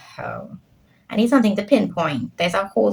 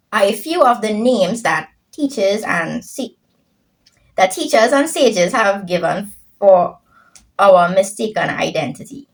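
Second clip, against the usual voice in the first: reading aloud; 3 dB louder than usual. Acted.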